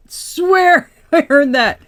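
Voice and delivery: high, loud, slow words through a laugh. Real, not acted. Tarot reader to viewers, laughing at the card's bluntness. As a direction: crack up while swearing it's true.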